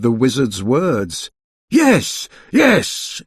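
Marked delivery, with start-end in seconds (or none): 1.7-3.2 high panicked yes. A narrator's reading. Mister Stingy panicking with a carrot nose. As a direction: blurt it in a panic. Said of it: "he cried in a panic".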